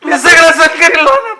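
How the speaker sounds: broken, wailing plea; sobbing. Acted. Betrayed man pouring his heart out to Nana, sobbing. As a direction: sob out that it is unbearable.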